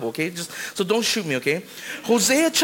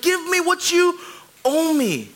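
higher, pushy demand; mock demand at vending machine; 9 semitones higher, slower than usual. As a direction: shake the machine and demand your money. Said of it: "We're like".

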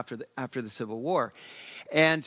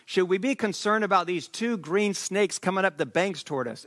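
a raised, higher call of alarm; mock alarmed shout, a touch higher; retold yell; 5 semitones higher than usual. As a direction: call out to him across the riverbank. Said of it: "one of my cousins yells".

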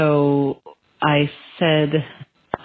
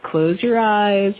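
slow meditation voice; 4 semitones higher, much slower than usual. Retold or imitated. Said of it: "the man on the app said".

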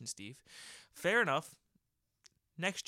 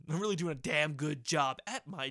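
laughing; 3 semitones higher, 5 dB louder than usual. Retold or imitated. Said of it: "I'm just like".

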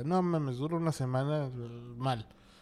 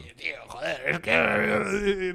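put-on Spanish accent; 4 semitones higher, slower than usual. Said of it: "eso es como valenciano".

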